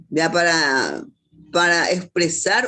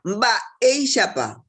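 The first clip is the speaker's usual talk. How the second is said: "Ba e shapa" with the "e" stressed; careful demonstration of "Ba e shapa", weight on "e"; pronounced accent; 3 semitones higher than usual. Shown as a demonstration. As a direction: set "e" apart and lean on it in "Ba e shapa". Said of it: "pero sí se pronuncia".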